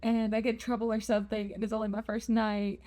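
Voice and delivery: mildly anxious run of what-if questions; a touch of fretting, words tumbling out; paranoid self. Retold or imitated. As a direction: rattle off worries, imitating a paranoid inner voice. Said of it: "my paranoid self was like".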